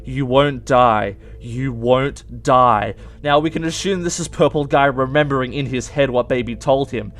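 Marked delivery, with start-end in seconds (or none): 0.1-2.9 slow, deliberate, lightly voiced eerie promise; Baby's voice. Narrator echoing Baby's promise, slow and eerie. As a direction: draw each word out like a haunting echo. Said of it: "You hear Baby's voice repeat over and over".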